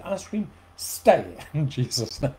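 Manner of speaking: playful command to the fridge, laughing; mock rebuke. Preacher rebuking his ice cream craving, laughing. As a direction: order the ice cream to stay, half joking. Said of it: "and I said".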